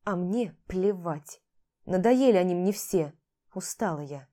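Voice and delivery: медленно, устало-безразлично; отмахнись устало; равнодушно. Acted. Равнодушный отказ. (жена устало отказывает, медленно)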